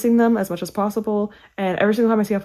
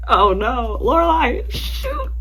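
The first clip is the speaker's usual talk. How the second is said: much higher, wobbling on the edge of tears; tearing up; 5 semitones higher, much slower than usual. Real, not acted. Reading a friend's note, starting to cry. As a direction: fight back the tears and lose. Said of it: "I said I wouldn't cry. I lied".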